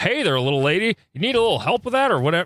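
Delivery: put-on clueless-sounding, dumb old man voice. Retelling how old guys at the clubs talk to women: imitating dumb old guys. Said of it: "dumb old guys who are like".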